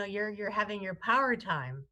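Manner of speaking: normal talking voice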